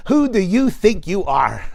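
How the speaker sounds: put-on British English outburst; grouchy mother in imitation British accent. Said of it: "eloquent British English, which I'm not British".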